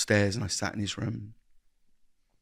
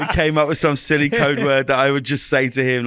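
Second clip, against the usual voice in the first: laughing while talking; 3 semitones higher, 8 dB louder than usual. Real, not acted. Laughing recalling silly code word.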